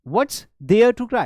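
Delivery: mock exasperation. Shown as a demonstration. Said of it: "तो कैसे कहोगे?".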